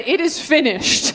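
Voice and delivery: slow solemn it is finished; mock Jesus. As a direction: intone like Jesus on the cross. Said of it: "As Jesus said".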